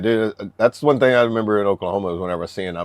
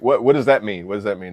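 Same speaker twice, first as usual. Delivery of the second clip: confused alarm; 2 semitones higher, 5 dB louder than usual. Retold or imitated. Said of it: "you're like".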